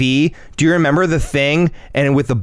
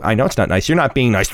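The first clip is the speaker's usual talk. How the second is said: lower, teasing comeback; unbothered dad; 3 semitones lower than usual. Retold or imitated. Dad pokes back at upset son, low unbothered retort. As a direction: answer back coolly to needle the kid.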